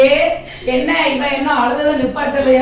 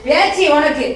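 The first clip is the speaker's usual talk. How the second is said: angry scolding; 5 semitones higher than usual. Acted. Mother-in-law scolding daughter-in-law.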